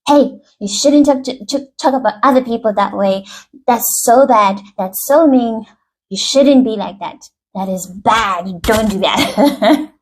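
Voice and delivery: lightly acted scolding; reprimanding parent. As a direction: tell a child off in a mock-stern voice. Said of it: "starts to reprimand the child".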